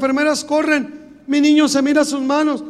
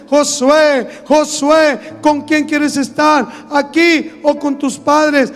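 louder, slow calling from above; powerful voice from heaven; 6 dB louder, slower than usual. Retold or imitated. A voice from heaven calling the boy, loud and slow. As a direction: call the boy's name like a voice from heaven. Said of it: "una voz potente del cielo".

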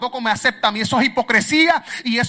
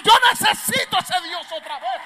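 voiced longing; 7 semitones higher than usual. Preacher voicing a hungry believer.

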